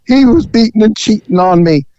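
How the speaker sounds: mildly acted tearful protest; a touch of mock crying; imitated tearful confession. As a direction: imitate a woman explaining through tears. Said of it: "through her tears".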